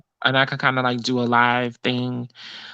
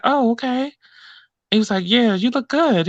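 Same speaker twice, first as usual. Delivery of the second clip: voicing the gentleman; 9 semitones higher than usual. Man voiced in retold story.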